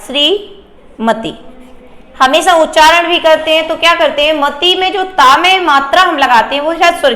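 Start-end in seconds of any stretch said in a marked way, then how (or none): 0.1-1.3 श्रीमती drawn out slowly and softly; teacher slowing down श्रीमती; slow careful pronunciation. Shown as a demonstration. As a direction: stretch श्रीमती syllable by syllable. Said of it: "अशुद्ध में देखिए सबसे पहले".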